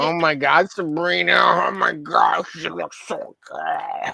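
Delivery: high, slow gushing mimicry of the gal pals; mocking gushing girlfriends. Mocking the friends who gush over a man online, high and slow. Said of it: "And they're like".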